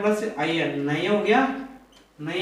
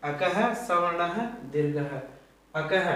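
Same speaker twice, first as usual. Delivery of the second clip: slow recitation; slower than usual. Shown as a demonstration. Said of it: "देखो".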